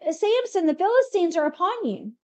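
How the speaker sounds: a mild mock yell; retold yell. She calls out to Samson once his hair is cut, mild mock yell. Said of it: "and then she yells".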